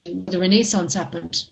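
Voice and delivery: choppy broken-up connection; bad line cutting out; breaking up. Real, not acted. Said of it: "you're breaking up there a lot".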